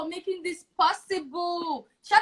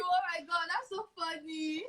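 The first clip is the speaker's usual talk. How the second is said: breathless laughter; 10 dB quieter than usual. Real, not acted. Laughing hard at joke.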